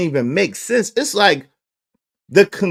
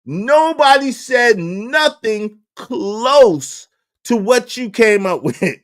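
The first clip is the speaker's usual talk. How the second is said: emphatic rebuttal; 4 semitones higher, 3 dB louder, slower than usual. Real, not acted. Heated rebuttal to critics.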